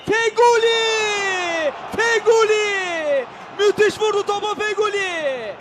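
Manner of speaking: slow stretched shout of the name; drawn-out name shout. Real, not acted.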